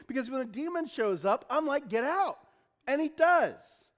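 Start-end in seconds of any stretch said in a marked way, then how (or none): 1.9-2.4 raised, firm short command; authoritative. Acted. Jesus when a demon shows up, authoritative. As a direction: dismiss it with authority. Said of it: "I don't just speak authoritatively".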